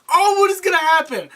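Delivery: very high mock-anxious squeal; imitated viewer suspense. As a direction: act out an overexcited viewer.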